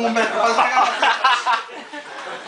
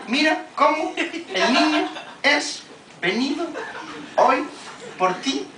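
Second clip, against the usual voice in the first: slow mocking singsong; 7 semitones higher, much slower than usual. Mother's drawn-out taunt.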